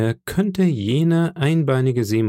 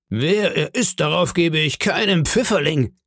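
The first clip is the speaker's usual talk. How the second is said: higher-pitched landlord's exclamation; calling out; 6 semitones higher than usual. Acted. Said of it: "rief Silver".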